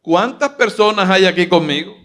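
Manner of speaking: loud, rising call to the crowd. Pretend. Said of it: "vamos a ver si se te sube el tono".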